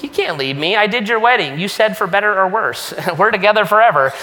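rising, hammed-up protest ending fast with a laugh; mock heartbroken plea. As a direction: play the jilted spouse for laughs, half laughing. Pastor mock-pleads with departing friend.

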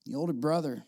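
breathy whispered aside. Acted. Preacher pulling the listeners close, whispered. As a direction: draw the church in with a whisper. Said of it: "I want you to see this".

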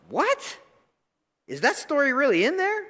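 high, startled what; shocked disbelief. Pretend. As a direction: gasp it out in disbelief. Listener reacting in disbelief.

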